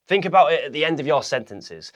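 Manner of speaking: ordinary delivery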